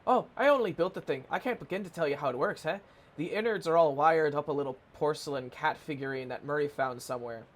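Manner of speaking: chatty handyman, light Scottish-Irish lilt; slightly Scottish-Irish accent. Acted. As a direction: play him faintly Scottish or Irish. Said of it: "I made Charles slightly Scottish".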